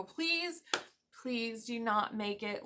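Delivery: pleading. Pretend. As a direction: beg them slowly, half in play. Begging the designers of new building.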